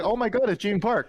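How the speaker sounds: high, excited imitation of onlookers; starstruck recognition. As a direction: mimic a stranger spotting someone famous. Retelling strangers recognizing him at party.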